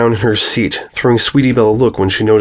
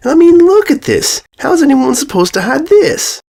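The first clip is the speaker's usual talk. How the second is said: exclaiming in alarm; 4 dB louder than usual. A narrator's reading. Pointing out the soggy tail.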